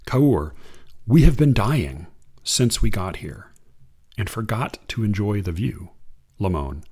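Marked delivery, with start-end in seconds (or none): 1.1-5.9 unhurried reading of verse; poem reading. Acted. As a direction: read it like a poem to an audience. Reads a Kaur poem.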